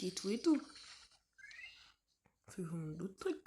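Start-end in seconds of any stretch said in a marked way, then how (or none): 2.5-3.4 unvoiced whispered aside to yourself; whispering. Real, not acted. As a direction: whisper it as a note to self.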